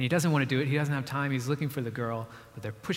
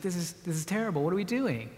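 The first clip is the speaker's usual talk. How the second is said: higher-pitched, mildly horrified quote; acted dismay; 4 semitones higher than usual. Preacher as the monster coming to his senses, higher dismayed voice. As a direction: imitate someone appalled at himself.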